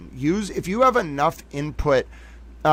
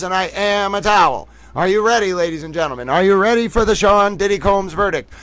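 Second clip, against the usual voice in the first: 1940s news announcer; 3 semitones higher than usual. Acted. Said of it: "I am in entering nineteen forties news announcer mode".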